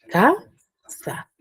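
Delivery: "ca-sa" with CA pushed high and SA let fall away; stressed first syllable. Shown as a demonstration. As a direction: punch CA with a breath, pause, then a weak SA. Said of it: "un impulso respiratorio un poco más fuerte".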